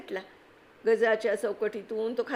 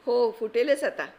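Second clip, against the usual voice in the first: forced confidence; 3 semitones higher, 5 dB louder than usual. Acted. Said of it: "तो म्हणाला".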